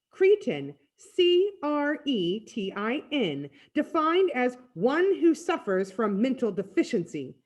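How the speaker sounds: slowly spelled-out, lofty put-down; pedantic insult. Acted. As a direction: recite it like a dictionary, pointedly. Freak spells and defines insult.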